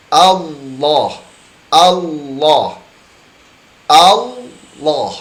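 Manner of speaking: 'Allah' with thick lam, lips not pushed forward; correct Allah. Shown as a demonstration. Teacher repeating correct Allah for students to copy. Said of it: "Coba diperhatikan".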